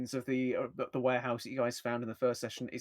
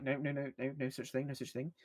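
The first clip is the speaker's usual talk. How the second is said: mumbling; 6 dB quieter than usual. Acted. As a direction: mumble it, fading away. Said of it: "mumbling something like".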